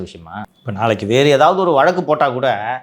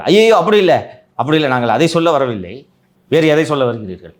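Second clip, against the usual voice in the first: alarmed protest. Retold or imitated. Retold courtroom exchange, alarmed.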